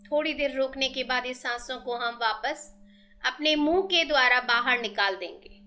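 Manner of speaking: measured meditation guide with long pauses; steady, even-toned breathing instructions; guided meditation. Real, not acted.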